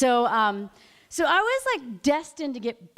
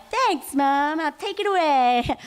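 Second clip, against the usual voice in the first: put-on sarcastic teen; 4 semitones higher, 3 dB louder than usual. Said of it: "I'm like".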